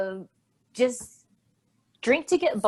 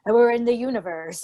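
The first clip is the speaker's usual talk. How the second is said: put-on old-timey voice. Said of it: "kind of old-timey voice".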